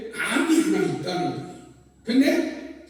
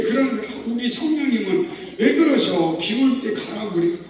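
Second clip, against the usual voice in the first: pouting, grumbling complaint; sulky grumbling. Retold or imitated. Pastor sulking at the Holy Spirit about rain, pouting grumble. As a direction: grumble to the Spirit with lips pushed out. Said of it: "입이 여기까지 나와가지고 구시구시".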